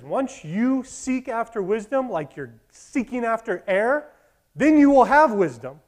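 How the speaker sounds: slow, deliberate sage voice; a hint of a wise old man; slow solemn wise man. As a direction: hand down the moral slowly. Wise man's moral.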